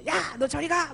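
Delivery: retold angry outburst; imitated parent's yell. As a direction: act out a mom blowing up at her kid. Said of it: "소리 질렀어요".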